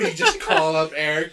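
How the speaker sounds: ordinary delivery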